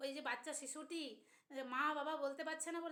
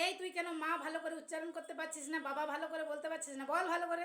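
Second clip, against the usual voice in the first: lightly acted cross parent, louder on the final demand; mock angry scolding; 4 dB louder than usual. Parents to a toddler learning to say ma and baba, mock scolding. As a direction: imitate a parent telling off a small child. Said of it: "মা বাবা কি তখন রেগে যায়".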